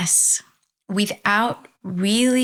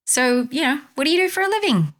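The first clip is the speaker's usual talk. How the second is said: quick, higher eager tourist asking; curious tourist; 8 semitones higher, faster than usual. Acted. American tourist quizzing the sleepy fisherman, quick and eager. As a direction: rattle off the question like a keen American tourist.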